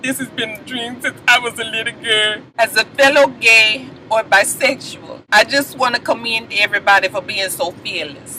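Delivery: lightly mocking a profound thank-you speech; trying to be deep. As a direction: imitate someone earnestly trying to sound deep. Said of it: "She was trying to be deep on that ass".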